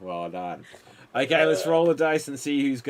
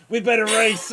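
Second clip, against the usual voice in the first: shouted hurry; 4 semitones higher, 6 dB louder than usual. Acted. Scene ends, time running out.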